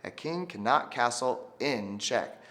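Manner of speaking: slow call-and-response. Shown as a demonstration. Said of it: "Everyone say that".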